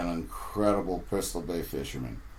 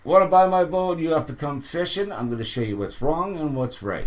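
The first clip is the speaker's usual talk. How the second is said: put-on Corey, no accent; 6 semitones higher, 3 dB louder than usual. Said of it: "I'm not gonna do his accent".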